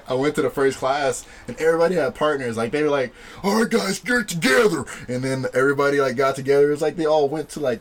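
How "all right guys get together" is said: lightly voiced coach, pitched up; instructor calling out. Coach to the class, calling out. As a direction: call the class to pair up, higher.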